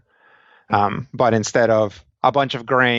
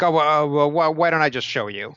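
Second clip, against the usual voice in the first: lightly voiced wizard, higher pitch; a hint of a hesitant, higher-pitched character voice; flustered wizard; 5 semitones higher, faster than usual. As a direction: stammer into a helpful offer. Acting the wizard's reply.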